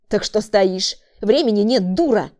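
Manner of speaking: loud, insulting; angry man. A narrator's reading. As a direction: hurry her up. Man yells. (злой окрик)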